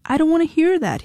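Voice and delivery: high refusing shout. A narrator's reading. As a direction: cover your ears and shout it. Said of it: "he shouted".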